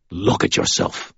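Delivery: voiceless, cold and hard; hard and merciless. Acted. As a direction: condemn him without pity. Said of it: "his words hard and merciless".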